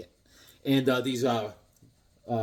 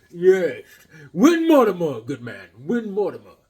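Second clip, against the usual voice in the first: enthusiastic shout-out; 2 semitones higher, 7 dB louder than usual. Real, not acted. Praising the comic artist, an excited hail. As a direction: call his name like a fan.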